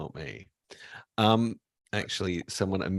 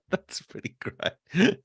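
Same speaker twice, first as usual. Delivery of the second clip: words squeezed out through laughter; slow, giggling delight; laughing; 12 semitones higher, 5 dB louder, slower than usual. Real, not acted. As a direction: laugh your way through it, higher pitched. Laughing at the sigh.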